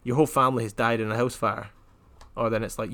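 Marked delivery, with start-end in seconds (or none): 0.0-1.7 deadpan monotone. Shown as a demonstration. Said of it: "I stay at this monotone".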